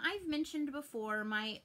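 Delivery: usual speaking voice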